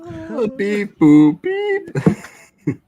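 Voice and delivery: high robot beeping noises; robot beeps. Pretend. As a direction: beep like a satellite. Imitating satellite signal.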